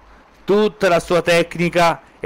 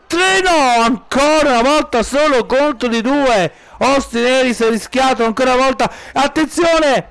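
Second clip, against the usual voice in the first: breathless italian goal commentary; 4 semitones higher than usual. Real, not acted. Near-fall count, commentator rising.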